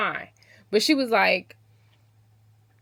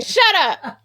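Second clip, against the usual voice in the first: higher, laughing embarrassed snap; laughing shut up; 9 semitones higher, 9 dB louder than usual. Retold or imitated. Flustered bride shushes her husband, laughing. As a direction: brush him off through a laugh.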